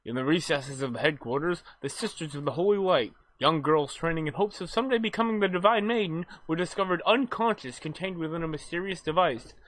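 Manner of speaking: story recap narration. Acted. Reads the game's story recap.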